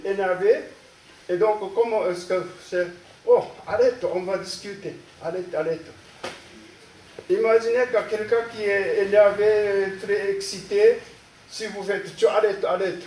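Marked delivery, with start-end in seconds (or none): 3.3-5.8 soothing plea to stop, easing down; calming. Shown as a demonstration. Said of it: "calmez-vous". 12.2-13.0 brusque demand to stop; a firm, provoking stop order; agitating. Shown as a demonstration. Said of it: "encore plus, euh, euh, excité".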